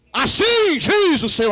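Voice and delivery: loud, slow, high prophetic declaration; booming proclamation. Acted. Profeta no monte anuncia a palavra, proclamação alta. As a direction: thunder it from the mountaintop.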